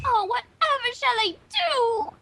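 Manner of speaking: slow, mock-theatrical lament; dramatic Rarity. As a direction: ham up a fainting-couch sigh. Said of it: "Rarity cried".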